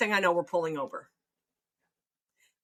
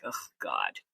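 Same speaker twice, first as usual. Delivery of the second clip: exasperated; 5 dB quieter than usual. Retold or imitated. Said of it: "rolling their eyes at me like".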